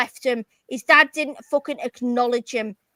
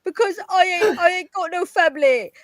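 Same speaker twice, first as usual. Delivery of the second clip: mock whiny sob story; 3 semitones higher than usual. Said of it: "you sat and cried and said".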